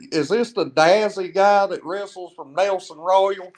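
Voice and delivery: lightly imitated promoter's accent, "Dazzy" for Dizzy; a touch of the promoter's accent. Promoter asking the wrestler who he is, lightly imitated accent. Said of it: "it was his accent".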